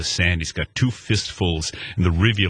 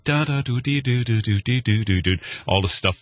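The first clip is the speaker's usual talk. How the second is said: scat melody; 3 semitones higher than usual. Retold or imitated. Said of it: "And I'm hearing".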